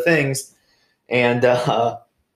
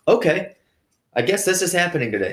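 high, wry mock surprise; amused resignation; 9 semitones higher, faster than usual. To himself as the crane crew arrives, amused resignation. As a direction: shrug it off like you just noticed the crane.

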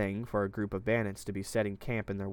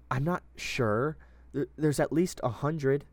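timid; 6 semitones higher, 4 dB louder, slower than usual. A narrator's reading. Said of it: "she said timidly".

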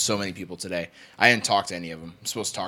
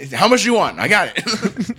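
mock eager teller; 10 semitones higher, 10 dB louder than usual. Mock customer service frenzy.

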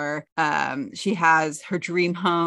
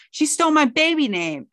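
high, louder, put-on whine; whiny complaint; 9 semitones higher, 5 dB louder than usual. Charlotte telling Samantha about the name, high whine. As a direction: whine like a wronged child.

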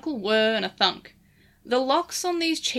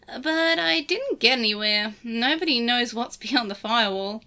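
lightly voiced Digimon sidekick; Lugumon voice. Lugumon character voice.

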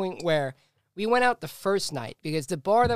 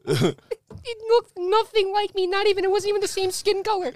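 can barely get it out for laughing; real laughter breaking the story; laughing hard; 6 dB louder than usual. Real, not acted.

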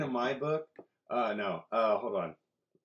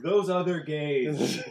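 sly drawl; 4 semitones higher, 6 dB louder, much slower than usual. Real, not acted. Sly joke, drawn out.

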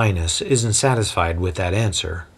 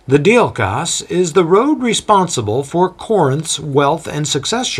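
a lightly voiced boastful local guide, higher; proud Corinthian guide; 7 semitones higher than usual. Boastful guide telling a visitor about Corinth, lightly voiced. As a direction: show off the city to a newcomer.

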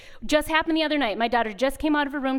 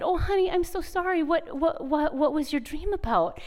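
comforting mother; 3 semitones higher than usual. Retold or imitated. Mother comforts daughter after bad dream.

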